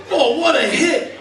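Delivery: high, slow mock cheer; yelling at screen. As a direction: play an excited fan hollering at the TV. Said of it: "then he yells at the screen".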